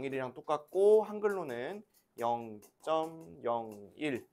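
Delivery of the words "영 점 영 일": measured teacher demo of "영 점 영 일"; digit-by-digit reading. Shown as a demonstration. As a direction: read "영 점 영 일" slowly, each word on its own. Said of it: "이렇게 읽을 거예요".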